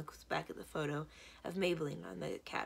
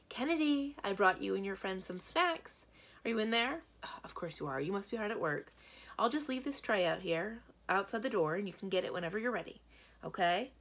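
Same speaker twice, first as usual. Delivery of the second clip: lightly voiced mom; 3 semitones higher, 4 dB louder than usual. Mom calls through the door.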